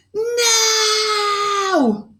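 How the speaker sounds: high, loud princessy shout; princessy command. Acted. Princess losing patience with the aliens, high loud command. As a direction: bark the order like a royal. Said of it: "commanded in her most princessy voice".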